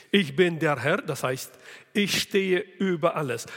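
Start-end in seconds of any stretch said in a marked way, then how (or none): 0.1-1.0 "Ich" stressed and rising. Shown as a demonstration. Preacher explaining God stands above all, stressed Ich. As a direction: hit "Ich" hard, then "der Herr". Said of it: "diese Betonungen müssen wir".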